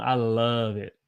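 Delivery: "love" with a long held vowel; drawn-out Southern "love". Shown as a demonstration. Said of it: "You hold it".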